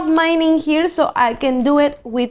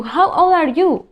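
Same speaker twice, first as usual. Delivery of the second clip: asking tone; 3 semitones higher than usual. Shown as a demonstration. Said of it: "I'm asking you".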